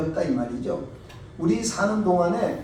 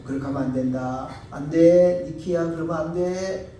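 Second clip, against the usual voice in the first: gentle warning; 6 dB louder than usual. Retold or imitated. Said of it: "맨 처음엔 좋은 말로 하죠".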